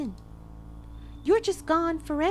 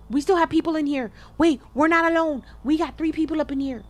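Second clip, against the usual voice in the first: alarmed rush; 3 semitones higher, 5 dB louder, faster than usual. Real, not acted. Alarmed that others are inside.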